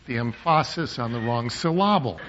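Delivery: "emphasis" as em-PHA-sis, "syllable" as syl-LA-ble; joking misplaced stress. Shown as a demonstration. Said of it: "as people will say sometimes".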